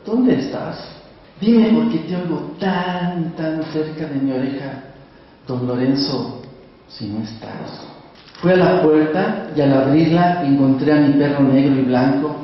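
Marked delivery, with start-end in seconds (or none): 0.1-7.9 mildly frightened. Acted. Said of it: "entre sotil y asustado".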